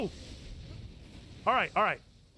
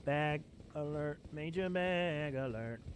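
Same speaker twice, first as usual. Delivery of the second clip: much softer, drawn-out secret announcement; hushed alert; 9 semitones lower, 10 dB quieter than usual. Acted. Gamer quietly announcing loot, hushed alert. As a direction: murmur it like a secret tip.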